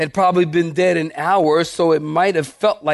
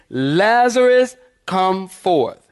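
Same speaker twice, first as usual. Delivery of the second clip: raised, drawn-out summons on the name, then settle; commanding call; slower than usual. Retold or imitated. Preacher voices God summoning Lazarus from the grave, commanding. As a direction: call him out with authority. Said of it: "he had to say".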